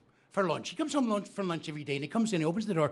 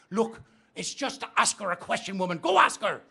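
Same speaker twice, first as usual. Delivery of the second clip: exasperated order; 3 dB louder than usual. Acted. Husband orders wife.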